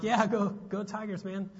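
mock cheer. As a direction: answer a fellow fan with a mild whoop. Acts out his cheering reply.

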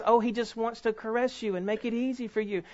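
softly voiced naive reassurance; mock gentle. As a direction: play down the danger in a gentle voice. Mocking a too-gentle view of testing.

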